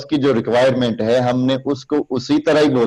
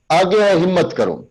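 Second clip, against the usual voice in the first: declaiming; 4 semitones higher than usual. Shown as a demonstration. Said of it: "اب یہ تیسری line تھی".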